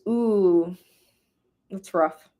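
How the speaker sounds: normal talking voice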